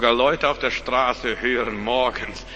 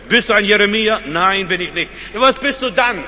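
questioning John; 5 semitones higher, 5 dB louder than usual. Acted.

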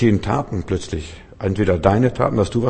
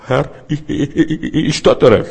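higher stammering, stuck on ich; stuttering Moses; 6 semitones higher, 5 dB louder than usual. Acted. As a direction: stammer out the excuse. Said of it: "Der fing an zu stottern". (stotternder Mose, höher, bleibt bei "ich" hängen)

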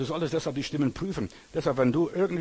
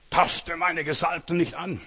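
slow, weighty mock warning; pompous imitation of a self-anointed prophet; mock false prophet; 3 semitones higher, slower than usual. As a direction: draw out each word like an offended prophet. Mimics indignant false prophets.

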